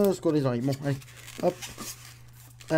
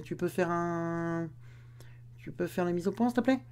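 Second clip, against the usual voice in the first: whispered request; 2 semitones higher, 5 dB quieter than usual. Real, not acted. Demande tout bas au caméraman.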